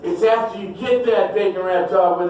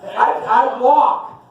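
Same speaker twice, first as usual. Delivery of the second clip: mock angry rant; 5 semitones higher than usual. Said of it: "That makes me mad".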